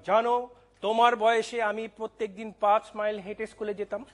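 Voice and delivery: mild mock scolding, like a parent lecturing; parental scolding. Father to daughter refusing school, mild mock scolding. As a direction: retell a stock elder's telling-off, lightly acted. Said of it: "আমি তাকে গতানুগতিক বকা দিলাম".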